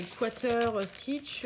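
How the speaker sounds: hesitant English with a French accent; English stitch term, French accent, pausing midway; real French accent on English. Real, not acted. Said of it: "excusez-moi pour mon accent anglais".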